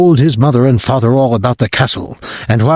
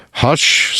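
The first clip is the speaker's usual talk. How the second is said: hushed; 3 semitones higher than usual. Acted. Father hushing his wife so the boy won't hear, unvoiced.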